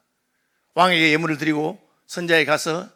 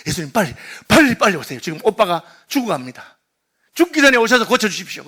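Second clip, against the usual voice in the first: urgent plea; 3 semitones higher, 4 dB louder than usual. Retold or imitated. Sisters urgently summon Jesus.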